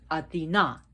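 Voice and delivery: Athena pronounced ah-thee-NAH, last syllable punched; Greek-style Athena, ending on a stressed "NAH"; stress on final A. Shown as a demonstration. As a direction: lean on the closing A of Athena. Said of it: "Emphasis on the A".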